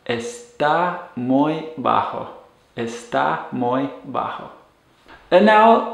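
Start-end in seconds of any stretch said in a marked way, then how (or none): 0.1-2.3 está muy bajo slowly, each word apart; está muy bajo said for learners; slow model phrase. Shown as a demonstration. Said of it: "using the verb estar". 2.8-4.5 está muy bajo echoed softly; está muy bajo repeated quietly. Shown as a demonstration. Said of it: "using the verb estar".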